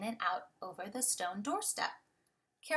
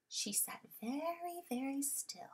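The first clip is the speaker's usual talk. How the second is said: hushed; 4 semitones higher, 8 dB quieter than usual. A narrator's reading. Cat sitting still, hushed.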